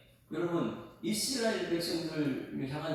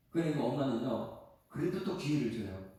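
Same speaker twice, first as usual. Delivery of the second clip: ordinary delivery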